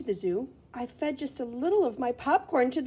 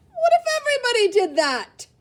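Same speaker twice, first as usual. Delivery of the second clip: higher, louder stern patrolman; patrolman scolding; 12 semitones higher, 7 dB louder than usual. Acted. Patrolman who pulled the family over, stern rebuke. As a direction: scold like a cop at a traffic stop. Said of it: "who pulled us over said".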